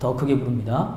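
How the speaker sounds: very small, soft, very calm voice. Showing a voice that is very small and very calm, very small and calm voice. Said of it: "목소리는 되게 작고 아주 차분하게 얘기하는데".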